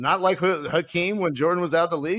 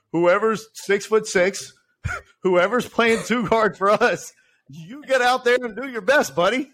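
goofy coach voice; 6 semitones higher than usual. Retold or imitated. Mock coach addressing players.

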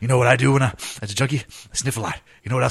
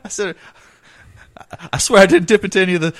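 junkie voice; 7 semitones higher, 6 dB louder than usual. Acted. Improv junkie pleading with boss.

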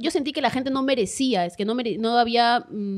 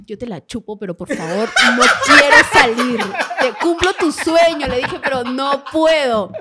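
laughing mock plea; 7 dB louder than usual. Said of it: "la agarré a Brian y le dije".

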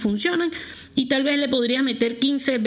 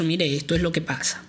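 serious calm; 4 semitones lower than usual. Retold or imitated. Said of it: "con toda la seriedad del caso".

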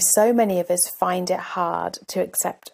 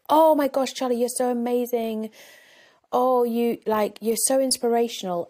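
higher-pitched gush of admiration, imitating a group; gushing praise; 4 semitones higher than usual. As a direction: pile on the compliments, as retold. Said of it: "everyone piled on and they were like".

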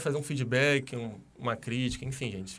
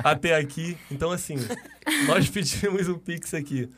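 laughing; 3 semitones higher, 3 dB louder than usual. Real, not acted. Laughing over Natália's patience.

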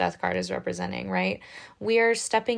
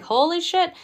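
startled crab; 10 semitones higher, 4 dB louder than usual. Pretend. Crab voiced, startled by child.

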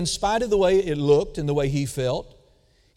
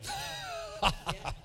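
demo laugh; 12 dB quieter than usual. Shown as a demonstration. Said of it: "look at bad situations and laugh".

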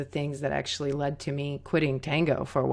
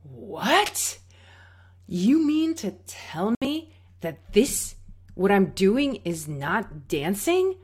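high, slow incredulous question; can't believe what she's hearing; stunned disbelief; 3 semitones higher, 4 dB louder, slower than usual. Retold or imitated. Student asking the teacher in shock if this isn't dancing. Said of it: "I was like".

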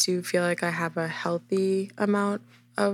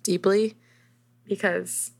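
muffled by a hand in the mouth; slower than usual. Real, not acted. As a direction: talk with a hand in your mouth. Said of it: "sorry, I put my hand in my mouth".

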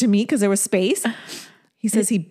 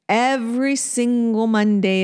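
slow emphatic repeat; slower than usual. Shown as a demonstration.

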